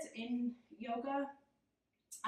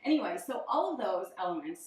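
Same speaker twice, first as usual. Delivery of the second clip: out of breath; 7 dB louder than usual. Real, not acted. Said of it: "I'm so out of breath right now".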